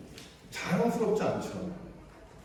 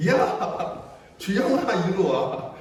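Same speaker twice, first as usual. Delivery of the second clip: mock angry call; much slower than usual. Angry parent calling name.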